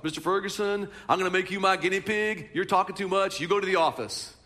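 lightly imitated Southern drawl, stern; a hint of a stern Southern teacher. Pastor imitating teacher sending him to office, light Southern drawl. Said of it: "that's how he talked".

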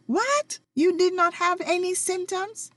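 high, loud incredulous yell; yelled disbelief. Retold or imitated. Retelling her shock at her aunt's answer, yelled. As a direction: shout it like you can't believe your ears. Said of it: "I yelled".

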